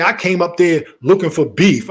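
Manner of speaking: parroting the accusation with scorn; mocking her words. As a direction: throw her accusation back at her.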